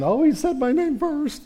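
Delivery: a proud parent gushing over a first word; delighted parent. Retold or imitated. Parent thrilled baby said their name first, high mock delight.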